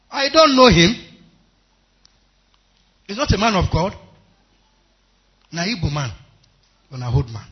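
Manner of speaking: loud, high, emphatic preaching; preaching shout. Real, not acted. Preacher to congregation about the stranger, emphatic shout. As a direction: cry it out to the congregation. Preacher stressing the old man's kindness.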